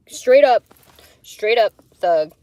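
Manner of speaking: loud hyped-up praise; excited. Real, not acted. Showing off her drawing, loud and hyped. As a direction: hype it up like a proud artist.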